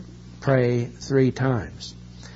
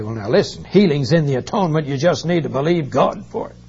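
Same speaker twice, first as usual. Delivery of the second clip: bold claim; 2 semitones higher, 5 dB louder, faster than usual. Retold or imitated. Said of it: "stand up bold and say".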